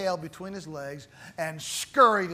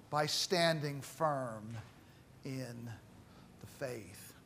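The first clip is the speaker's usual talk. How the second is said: fading to a whisper; 6 semitones lower, 11 dB quieter, slower than usual. Real, not acted. Preacher drops to hush.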